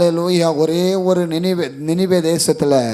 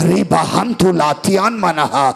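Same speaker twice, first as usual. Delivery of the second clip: speaking in tongues. Real, not acted.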